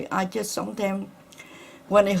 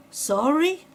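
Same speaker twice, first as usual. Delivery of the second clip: disbelief; 8 semitones higher than usual. Retold or imitated. Repeats doctor's news in disbelief.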